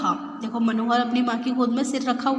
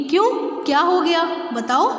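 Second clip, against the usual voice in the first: surprised; 5 semitones higher, faster than usual. Acted. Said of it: "माँ पूछती है मनोहर से".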